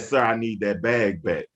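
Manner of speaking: low, calm and controlled; politely firm, low-pitched quote; retold calm request. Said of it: "He said it real calm the first time".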